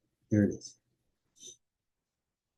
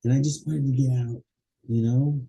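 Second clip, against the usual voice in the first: acted chat; 3 semitones higher than usual. Shown as a demonstration. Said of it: "Cause and effect".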